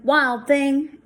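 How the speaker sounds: mother calling loudly. Acted. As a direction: call out across the house.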